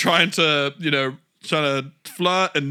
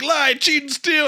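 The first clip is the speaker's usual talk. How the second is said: mock Latino accent; 12 semitones higher, 6 dB louder, slower than usual. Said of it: "it ends like".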